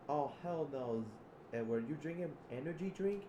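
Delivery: high, incredulous outburst; alarmed disbelief. Acted. Zip seeing Edward down an energy drink, high alarm. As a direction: rise into a dismayed question.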